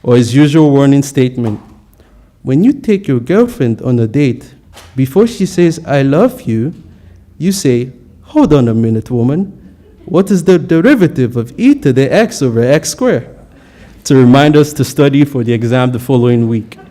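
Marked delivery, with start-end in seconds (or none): 2.4-13.3 put-on Korean accent. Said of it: "precise Korean accent".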